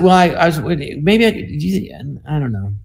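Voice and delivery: imitated stammering, trailing off; mumbled thinking aloud. College kid answering a puzzled listener, mock stammering. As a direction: start and restart, then let it fade. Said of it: "I would talk like that".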